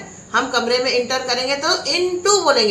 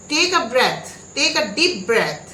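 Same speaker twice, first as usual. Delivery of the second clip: slow modelled phrase; much slower than usual. Shown as a demonstration. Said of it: "teacher models the phrase again".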